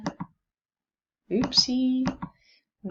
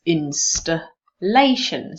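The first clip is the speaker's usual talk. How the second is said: "Installation" slowly, broken before the stressed "la"; syllable stress demo; 5 dB louder, slower than usual. Shown as a demonstration. Teacher checking secondary stress in a word, stress demo. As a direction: sound out "Installation" in parts, weight on "la". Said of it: "what about, uh, secondary stress".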